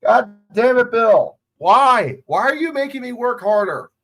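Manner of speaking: high, loud plaintive complaint; exasperated outcry. Real, not acted. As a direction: wail at the coach for piling on work. Mock outrage at the coach.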